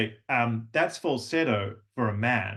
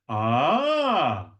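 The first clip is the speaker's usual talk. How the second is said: reward a student's success; delighted ah; 4 dB louder than usual. Shown as a demonstration. Coach in class praising a student's right move, louder ah. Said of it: "we can go".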